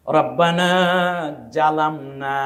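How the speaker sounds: রব্বানা জালামনা with a plain jim j sound; জালামনা starting on a hard j. Shown as a demonstration. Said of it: "জিম দিয়ে".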